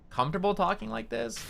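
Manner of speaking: comfortable natural voice, pitched well up; normal comfortable voice. Shown as a demonstration. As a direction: let the voice sit high and at ease. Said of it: "this is probably my normal voice".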